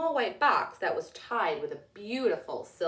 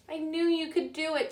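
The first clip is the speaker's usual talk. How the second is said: proud mother; 7 semitones higher than usual. A narrator's reading. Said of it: "she said".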